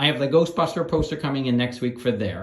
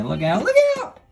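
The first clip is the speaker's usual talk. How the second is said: sudden loud warning yell, higher; startled yell, pitched up; calling out; 6 dB louder than usual. Real, not acted. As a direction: shout a quick warning at the dog. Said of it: "Trying not to yell into the".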